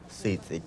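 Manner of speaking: "sitzik" with a ts in the middle; Yokot'an pronunciation. Shown as a demonstration. Host recaps the robalo's Yokot'an name, clearly pronounced. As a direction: say "sitzik" as si-tsik. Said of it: "en lengua yocotán se pronuncia".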